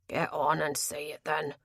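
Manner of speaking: sulky and defeated. Acted. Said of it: "His tone had lost some of its belligerence, sounding merely sulky".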